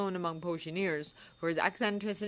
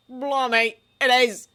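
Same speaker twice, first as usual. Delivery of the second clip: surprised; 6 semitones higher, 10 dB louder, slower than usual. Acted. Ron surprised at the owl.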